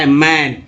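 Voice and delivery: मैन with an open ae vowel; teacher's demo of the vowel in मैन. Shown as a demonstration. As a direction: sound out ae, then मैन, pitch dropping. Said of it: "मैन में ए को क्या बोल रहे हैं".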